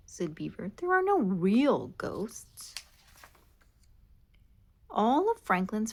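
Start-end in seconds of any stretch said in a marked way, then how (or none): 0.8-2.8 hushed. Acted.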